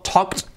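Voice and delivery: "talked" as one syllable ending "k-t"; final T sound. Shown as a demonstration. Teacher showing the regular past, "talked" ending in a T sound. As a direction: finish "talked" on a crisp T, silent L. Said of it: "cuidado con el sonido".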